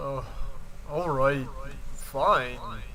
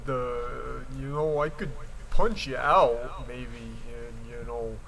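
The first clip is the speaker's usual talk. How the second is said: sarcastic. Acted. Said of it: "The cloaked figure said sarcastically".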